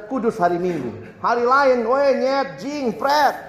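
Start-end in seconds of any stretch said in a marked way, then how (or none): 1.2-3.4 higher, rough slang bursts; mock weekday cursing. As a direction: toss off the curses carelessly.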